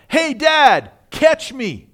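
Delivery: high, loud imitation of a boy calling out; storyteller's imitated yell, pitched high. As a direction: call to Dad from up above. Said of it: "he heard a voice from above him yell".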